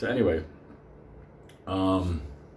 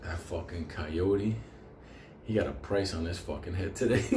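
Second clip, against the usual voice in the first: mock menace; 3 semitones lower, 5 dB quieter than usual. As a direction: say it like a hitman. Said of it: "this motherfucker said".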